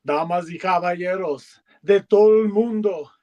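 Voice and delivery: lightly voiced lucha libre ring announcer intro. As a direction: ring announcer building the crowd, in Spanish. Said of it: "Will you say for us in Spanish".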